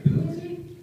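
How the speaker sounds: high, loud disbelieving "who is he"; puzzled council member blurting it out; startled question. Retold or imitated. Council asks the lawyer about the stranger, high and startled.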